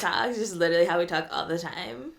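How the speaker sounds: creaky vocal fry. Real, not acted. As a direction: let the last word fry. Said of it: "see how I said that".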